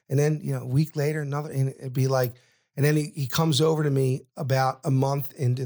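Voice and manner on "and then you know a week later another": ordinary talk, nothing marked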